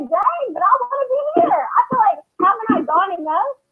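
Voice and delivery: holding back real tears as she speaks; tearing up. Real, not acted. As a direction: voice rising, starting to cry. Mother pushing her away, tearful.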